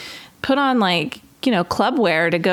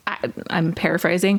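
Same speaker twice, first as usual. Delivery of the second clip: ordinary delivery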